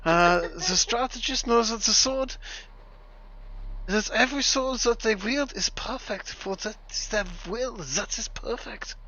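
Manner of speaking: put-on German accent. Keeps reading the sword book to friends, playful German accent. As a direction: ham up a German sage reciting wisdom. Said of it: "enjoying the German accent a lot".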